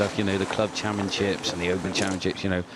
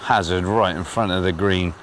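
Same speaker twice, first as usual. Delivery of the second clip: shouting over noise; 2 semitones higher, 4 dB louder than usual. Real, not acted. Shouting over flying drone noise.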